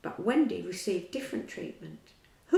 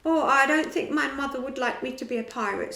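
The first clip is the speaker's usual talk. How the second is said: Tootles' voice; 5 semitones higher, 7 dB louder than usual. A narrator's reading. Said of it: "said Tootles".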